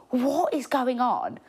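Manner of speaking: a hushed, breathless what-is-happening whisper; disbelieving whisper. Retold or imitated. Whispering to her friend at the table, stunned by the treatment, hushed whisper. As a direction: whisper it to your friend like you can't believe it.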